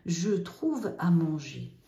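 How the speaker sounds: slow, careful "Je trouve à manger"; slow model sentence. Shown as a demonstration. Teacher modelling the affirmative slowly. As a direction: read it out slowly for the class. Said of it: "on met le N apostrophe".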